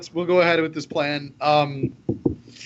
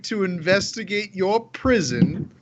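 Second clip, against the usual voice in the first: drawn-out, self-important official; slow pompous wizard; slower than usual. Acted. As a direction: stretch every word like a grand mage. In-character pitch to guard.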